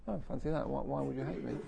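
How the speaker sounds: imitating gentle, unoffended puzzlement; understated, softly wondering question; mild surprise. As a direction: muse it lightly, a little curious. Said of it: "just a bit like that".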